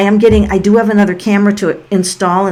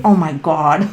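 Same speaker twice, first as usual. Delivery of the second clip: laughing; 4 semitones lower than usual. Real, not acted. Reacts to a viewer's question.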